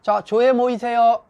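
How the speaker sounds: loud, high, drawn-out call to assemble; commande sèche. Acted. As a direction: call the staff in like an order, slowly. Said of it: "명령어죠".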